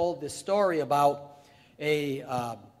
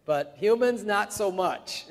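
amused quip; 3 semitones higher, 8 dB louder, slower than usual. Retold or imitated. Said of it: "He says".

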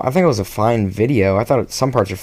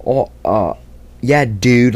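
a light mock dude bro, loose and casual; lightly voiced surfer bro, half-hearted; much slower than usual. Recalling his old skit character, a mild mock dude bro voice. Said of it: "doing a dude bro voice".

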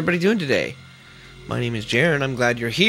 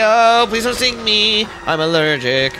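mock panic; 4 semitones higher, 5 dB louder than usual. Panicked pleading at game bugs.

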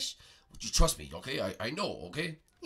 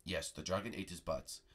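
wise master voice; 13 semitones lower, 12 dB quieter than usual. Acted. Master Prego confirms.

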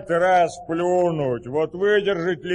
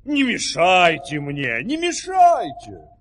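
urgent hushing; slower than usual. Acted. Listener hushing travellers, ear down.

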